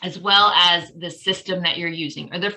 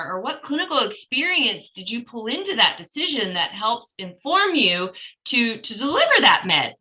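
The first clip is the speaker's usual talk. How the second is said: nicer way. Shown as a demonstration. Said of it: "a nicer way of saying".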